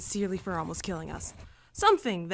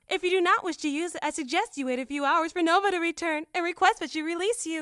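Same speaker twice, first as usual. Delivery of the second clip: high, even, precise machine voice; lightly robotic assistant voice; android; 9 semitones higher, 3 dB louder than usual. Acted. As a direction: speak like a polite ship android. Android character voice.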